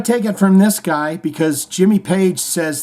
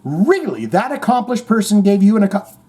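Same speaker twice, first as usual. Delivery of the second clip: acted-out amazement, pitch climbing; mock astonished listener; impressed reaction; 6 semitones higher than usual. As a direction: play being wowed by a compliment. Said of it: "you go, "Wow, really?".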